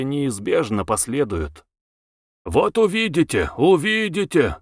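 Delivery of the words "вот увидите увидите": higher, knowing promise; hint at a secret to come; mildly mysterious, pitched up. A narrator's reading. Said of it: "таинственно говорил он".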